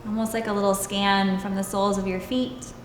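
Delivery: calm, even meditation voice with long pauses; guided meditation. Acted. Yoga teacher leading students into stillness and breath, guided meditation. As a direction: guide them unhurriedly, leaving space between phrases.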